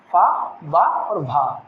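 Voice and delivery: फा, बा, भा stretched very slowly; drawn-out consonant demo. Shown as a demonstration. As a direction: drag out फा बा भा for dictation. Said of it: "उसके बाद आएंगे पा". (बहुत धीमा उच्चारण)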